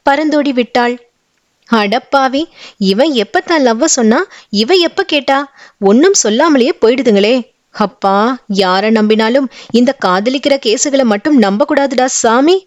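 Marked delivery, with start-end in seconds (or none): 1.7-12.6 grumbling aloud. Acted. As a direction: moan about the lovers, mildly exasperated. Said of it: "வாய்விட்டே Sudha புலம்பினாள்".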